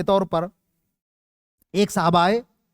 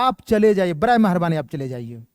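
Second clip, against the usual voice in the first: polite request; 3 semitones lower, faster than usual. Shown as a demonstration. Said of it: "گزارش پائی جا رہی ہے".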